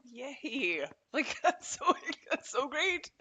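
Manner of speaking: high delighted cheer with a laugh; excited. Real, not acted. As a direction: cheer it, genuinely thrilled. Celebrating good news.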